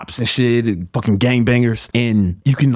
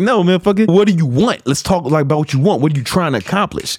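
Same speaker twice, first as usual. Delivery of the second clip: mock scolding; 5 semitones higher than usual. Acted scolding of the self-pitying friend.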